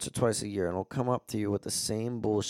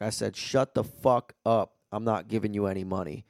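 retold firm repeat; 3 dB louder than usual. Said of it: "And I was like".

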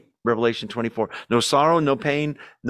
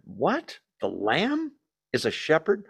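mock incredulity; 3 semitones higher, 3 dB quieter than usual. Acting out surprise at the paradox.

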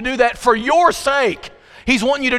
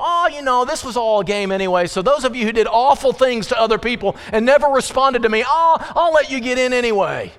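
mock breezy God; 4 semitones higher than usual. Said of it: "God will go".

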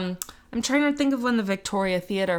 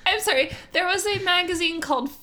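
incredulous; 8 semitones higher, faster than usual. Real, not acted. Incredulous at fireproof magazine.

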